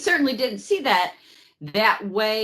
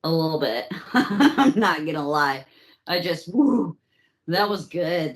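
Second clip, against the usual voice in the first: laughing; 4 semitones lower than usual. Real, not acted. Giddy over the pun.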